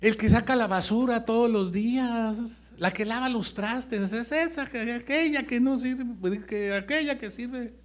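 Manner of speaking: high, loud preaching about the youngest; fervent preaching. Real, not acted. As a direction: lift the voice and drive each phrase. Preaching at full force. (predicando con fervor, agudo y fuerte)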